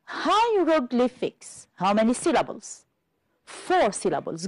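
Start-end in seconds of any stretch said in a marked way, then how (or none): 0.0-1.7 "Hieroglyphics" repeated slowly, higher in pitch; syllable demonstration. Shown as a demonstration. Teacher repeating a long word for counting, "Hieroglyphics" slow and high. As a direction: draw out "Hieroglyphics" with a high start, falling away. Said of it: "Let's repeat it".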